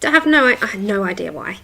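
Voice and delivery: softly nasal, stuffy tone; a bit nasally, with a blocked nose. Real, not acted. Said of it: "If I sound a bit nasally".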